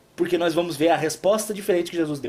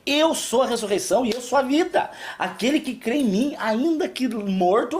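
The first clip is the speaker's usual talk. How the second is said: gentle Jesus; 3 semitones higher than usual. Retold or imitated. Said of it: "Jesus primeiro fala assim".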